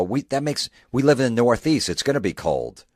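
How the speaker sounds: put-on high, loud know-it-all kid; incredulous kid. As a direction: talk like a smart-aleck eight-year-old. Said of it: "eight-year-old's gonna go".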